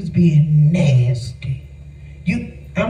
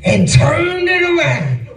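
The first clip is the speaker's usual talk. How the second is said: stern voice of God; 4 semitones higher, slower than usual. Retold or imitated. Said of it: "He said".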